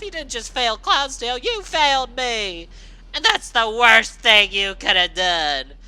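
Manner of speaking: loud, high, seething screamed rant; furious screaming. Acted. Rainbow Dash screaming back at her former little sister, seething hatred. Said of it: "as she screamed in return".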